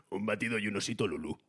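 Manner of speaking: son's new deep voice. Retold or imitated. Father imitating his teenage son's deep voice ordering a snack, low. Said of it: "Y escucho".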